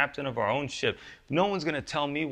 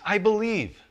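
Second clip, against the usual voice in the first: high, loud tearful cry; crying with tears; 7 semitones higher, 4 dB louder than usual. Retold or imitated. Father crying out to Jesus, a high loud plea. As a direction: plead it out, almost breaking. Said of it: "He cries with tears".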